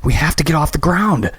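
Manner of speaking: high shout on the run. Acted. Christy shouting to Graham while running, urgent. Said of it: "she shouted as she ran".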